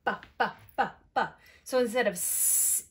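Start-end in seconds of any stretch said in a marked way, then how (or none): 0.0-1.4 "Ba" in short separate bursts; letter sound. Shown as a demonstration. Teacher showing B's sound, short repeated "Ba". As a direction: repeat "Ba" as isolated beats. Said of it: "What sound does B make".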